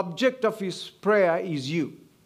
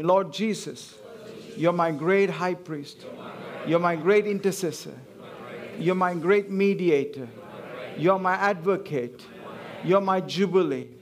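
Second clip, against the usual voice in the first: call to repeat. Shown as a demonstration. Pastor leading congregation in declarations, measured call. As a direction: lead the room line by line. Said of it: "Say after me".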